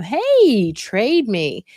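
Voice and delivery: cheerful coaxing to get the knife back; friendly trade offer. Shown as a demonstration. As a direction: sing out the hey to coax a swap. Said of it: "maybe you could trade them".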